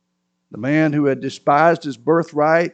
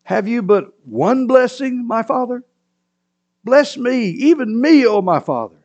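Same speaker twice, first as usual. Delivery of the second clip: pleading; 8 semitones higher, 4 dB louder than usual. A narrator's reading. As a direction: beg for a blessing. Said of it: "Esau said to his father".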